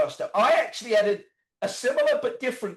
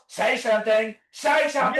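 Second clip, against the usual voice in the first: mock shouting; 3 semitones higher, 4 dB louder than usual. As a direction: bark the order at the patient. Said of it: "randomly scream at him".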